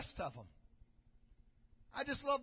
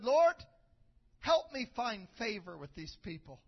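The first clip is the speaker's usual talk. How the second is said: earnest prayer; 3 semitones lower than usual. Retold or imitated. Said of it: "He prayed it".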